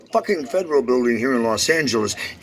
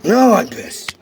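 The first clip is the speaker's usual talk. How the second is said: high, loud real fury; angry shout; 9 semitones higher, 7 dB louder, much slower than usual. Real, not acted. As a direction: blurt it out furious. Shouts his anger.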